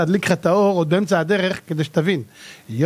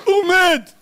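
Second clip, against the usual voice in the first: mock wail; 9 semitones higher, 3 dB louder, slower than usual. Moviegoer mourning the hero.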